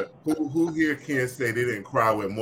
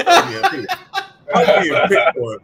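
mock whine; 9 dB louder than usual. Real, not acted. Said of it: "I feel like you're picking on me".

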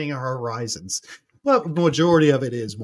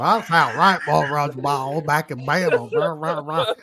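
lightly put-on parody of his odd talk; mocking imitation. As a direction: mimic him, then dissolve into nonsense. Mocking the other man's odd voice.

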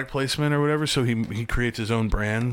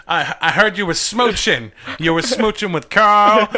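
mobster voice; 6 semitones higher, 5 dB louder than usual. Retold or imitated. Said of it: "He's like".

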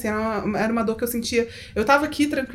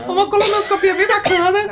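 high, loud and laughing; laughing, mock-cheerful; 7 semitones higher, 5 dB louder than usual. Real, not acted. Joking about her colonoscopy to the laughing hosts, laughing. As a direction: sell it like a treat, giggling. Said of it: "vocês têm que ver o que a Mariana tá fazendo com as mãos".

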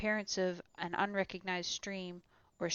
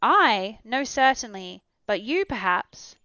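put-on loud, startled young man; young Axel; 2 semitones higher, 10 dB louder, slower than usual. A narrator's reading. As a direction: answer quickly, taken aback. Axel answers loudly.

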